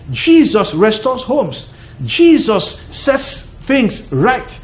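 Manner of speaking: each phrase slowly, spaced, proclaimed; slow preaching. Acted. Preaching climax, slow and emphatic.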